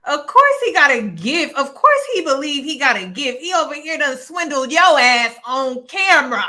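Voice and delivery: loud, fed-up scolding like a stern dad; exasperated scolding. Real, not acted. Co-host ranting at the guest on camera, loud fed-up scolding. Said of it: "you got me sounding like my damn daddy".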